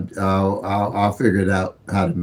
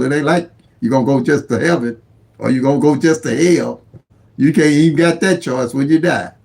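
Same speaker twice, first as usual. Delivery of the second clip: emphatic testifying; 5 semitones higher, 3 dB louder than usual. Real, not acted. Insists nothing in life is certain.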